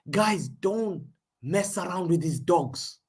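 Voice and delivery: slow, deliberate warning; heated slow warning to the chat. Real, not acted. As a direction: spell out "don't mess around with these dogs" slowly. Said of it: "Sorry, I didn't say dogs".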